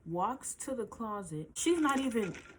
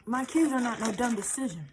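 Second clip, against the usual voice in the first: louder, punched retort; firm raised voice; 2 semitones higher, 6 dB louder than usual. Retold or imitated. Defending her kids to the girlfriend, raised voice. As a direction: hit it back hard at her. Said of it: "I'm like".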